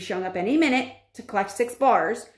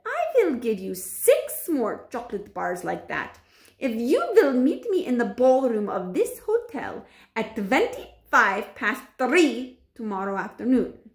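lightly put-on witch voice, bargaining; a hint of a scheming witch; sly witch voice; 3 semitones higher than usual. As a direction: tempt the boy in a witchy voice. Witch offers bars to boy.

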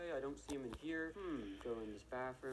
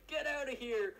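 high mock yell; 11 semitones higher, 6 dB louder than usual. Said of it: "he said".

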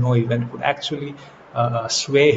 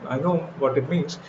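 Martha's impatience; 6 semitones higher than usual. Retold or imitated. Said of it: "Martha is like".

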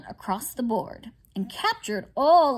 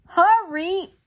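higher, louder, slow impatient chiding; 7 semitones higher, 6 dB louder, slower than usual. Acted. Sugar glider nagging Tobin during the game, chiding. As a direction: drag out an impatient scolding. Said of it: "the sugar glider chided".

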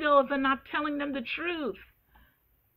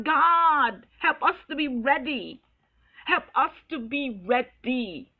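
crying out in prayer; 4 dB louder than usual. Retold or imitated. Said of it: "I'm crying out".

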